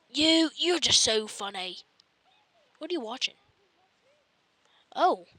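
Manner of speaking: ordinary talk, nothing marked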